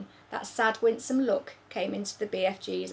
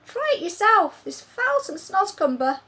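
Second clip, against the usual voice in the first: louder, higher teasing offer; giant's voice; 11 semitones higher, 9 dB louder than usual. Acted. BFG offering Sophie Snoscumber, loud teasing. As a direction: push the food on her.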